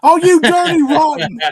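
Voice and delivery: high, loud mock indignation; playful fake outrage.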